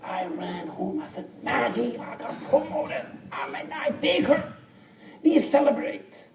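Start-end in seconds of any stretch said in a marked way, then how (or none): 1.4-6.3 high, bursting with joy; excited news. Retold or imitated. A husband tells his wife he got promoted, overjoyed. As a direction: shout the good news home like you can't contain it.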